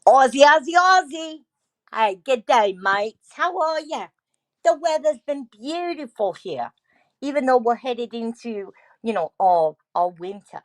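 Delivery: cheery mock Aussie; Australian accent. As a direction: greet them in a playful Australian accent. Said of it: "she wants you to talk like the".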